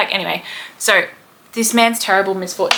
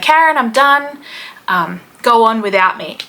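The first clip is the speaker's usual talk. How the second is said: higher, louder fed-up outburst to a wife; mock exasperation; 4 semitones higher, 4 dB louder than usual. Tall man quitting the tunnel tour to his wife, mock exasperated. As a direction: put on a husband giving up.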